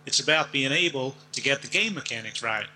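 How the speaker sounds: put-on lightly drawled American Southern accent; Deep South accent. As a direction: quote it like an old-time Southern character. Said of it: "sounded like somebody from the deep south".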